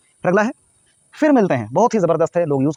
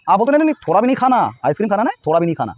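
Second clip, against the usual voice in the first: fast, high "नहीं, नहीं, नहीं", a parent forbidding ice cream; scolding mother; 3 semitones higher, faster than usual. Retold or imitated. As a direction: rattle it off like a mom saying no. (माँ बच्चे को ice cream से मना करती है, जल्दी-जल्दी डाँटते हुए)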